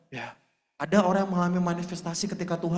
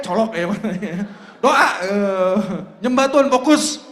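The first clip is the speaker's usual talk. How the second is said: scolding shout; 9 dB louder than usual. Retold or imitated. Scolding a distracted worshipper.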